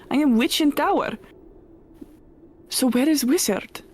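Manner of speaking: clipped foreign-ish witch, unsure; lonely witch defending her tower; witch character. Acted. Player voices the witch.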